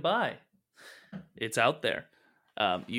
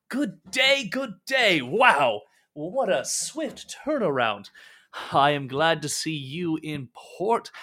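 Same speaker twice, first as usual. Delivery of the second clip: effusive merchant; 2 semitones higher, 6 dB louder than usual. Acted. Merchant greeting returning sailors, gushing and loud. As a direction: greet them like long-lost friends.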